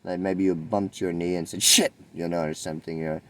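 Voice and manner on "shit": sudden sharp curse; involuntary blurt. Acted. Imagined knee bumped on something, involuntary blurt. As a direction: blurt it out like a reflex. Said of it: "like, Tourette style".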